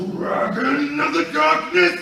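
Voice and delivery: full-force attack name yell; epic battle cry. Retold or imitated. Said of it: "And I just run".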